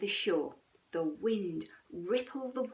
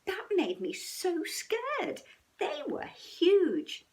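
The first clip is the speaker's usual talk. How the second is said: scared cub; 8 semitones higher, 4 dB louder than usual. A narrator's reading. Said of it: "shuddered little Snow Bear".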